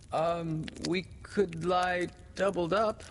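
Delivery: put-on high-pitched small boy's voice; young boy. A narrator's reading. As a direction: offer it high, like a little boy. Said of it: "said Nibs".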